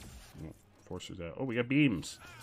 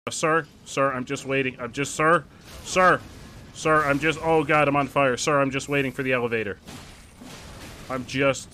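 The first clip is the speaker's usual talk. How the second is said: loud, higher panicky pleading; frantic pleading; 4 semitones higher, 6 dB louder than usual. Pretend. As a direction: beg the man urgently. Pleading with NPC while burning.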